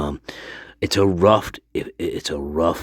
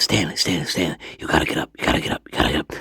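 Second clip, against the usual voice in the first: imitating the manager; much faster than usual. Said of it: "He says".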